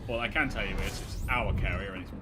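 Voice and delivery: excited. Real, not acted. Hyped about the carrier.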